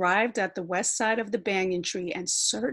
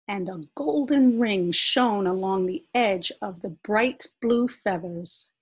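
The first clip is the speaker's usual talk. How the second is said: usual speaking voice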